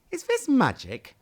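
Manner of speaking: high, hushed amazed question; curious wonder. Acted. Sad sees his balloon has grown, high with wonder. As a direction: wonder aloud to yourself. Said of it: "he asked himself curiously".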